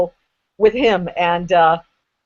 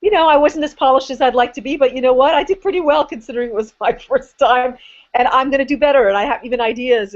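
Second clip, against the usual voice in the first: inner voice; 4 semitones higher than usual. Retold or imitated. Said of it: "There's a part of me going".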